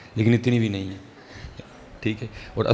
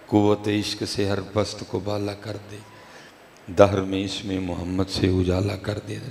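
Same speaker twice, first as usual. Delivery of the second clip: measured, slightly slowed verse delivery; poetry recitation; slower than usual. Acted. Preacher quoting Iqbal's couplet to the congregation, reciting. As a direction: let each half of the couplet land.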